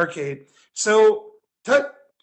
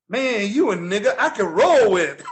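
imitating the bum; 3 dB louder than usual. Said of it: "Looks at Tut and he goes".

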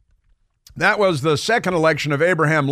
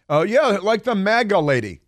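mocking; 5 semitones higher than usual. Mocking Biden's claim.

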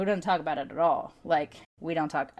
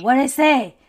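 higher, louder puzzled grandma; confused grandma; 6 semitones higher, 9 dB louder than usual. Retold or imitated. Grandma asks grandchild what strangers said, puzzled. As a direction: voice her as a baffled old lady. Grandma voiced in retold story.

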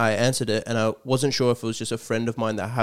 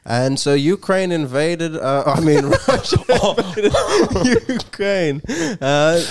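shaky elderly speech impression; Biden impression; 7 semitones higher than usual. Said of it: "Everyone gets to do one".

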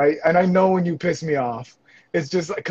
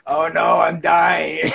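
laughing mock dying; much slower than usual. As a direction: fake dying through laughter. Laughing while being choked.

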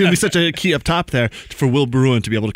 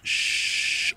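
a quick hushed shh; whispered shush; 7 dB quieter than usual. Retold or imitated. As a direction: hush someone with a whispered shh. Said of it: "finger to lips".

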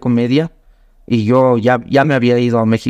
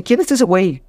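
higher, Mexican-flavoured puzzled question; Mexican puzzlement; 6 semitones higher than usual. Retold or imitated. Mexican comedians asking about the posters of Andrés López, puzzled. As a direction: ask it like a Mexican comic squinting at a poster.

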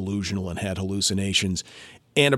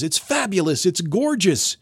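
delighted gush; 8 semitones higher than usual. Retold or imitated. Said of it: "She says".

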